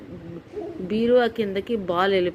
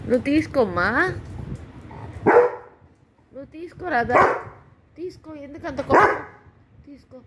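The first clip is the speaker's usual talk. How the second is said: higher, sing-song coaxing to a pet; 5 semitones higher than usual. Real, not acted. Mother coaxing her upset pet to fetch the ball, higher sing-song coaxing. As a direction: sweet-talk him into taking the ball.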